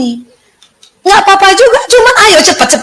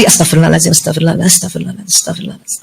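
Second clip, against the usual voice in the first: repeated istighfar fading down to a whisper; 10 semitones lower, 6 dB quieter, much faster than usual. Shown as a demonstration. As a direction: let each astagfirullahaladzim fade until only breath remains. Istighfar makin pelan. (istighfar yang makin lirih sampai berbisik)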